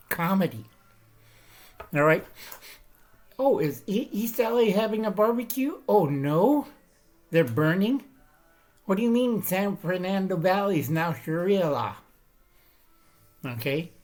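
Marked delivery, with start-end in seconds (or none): 3.4-12.0 hammed-up surprise at bad news; mock surprise. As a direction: play dumb amazement at the headlines. Mock-shocked news watcher.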